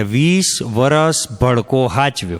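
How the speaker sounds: mock farewell with a laugh running through it; bride's mother, laughing. Bride's mother laughing as she warns the groom's mother. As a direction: hand the burden over through laughter. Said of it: "કન્યાની મા ... એટલું જ કહે".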